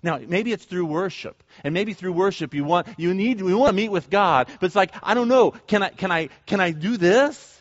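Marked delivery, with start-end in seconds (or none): 5.0-7.5 higher, halting self-doubt; acted hesitation. Worshipper unsure about reaching out to God, acted hesitation. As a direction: stumble uncertainly into the question.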